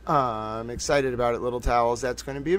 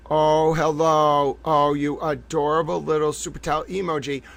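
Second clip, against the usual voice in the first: cooing hello. Real, not acted. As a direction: greet it like a pet. Cooing to the emoji.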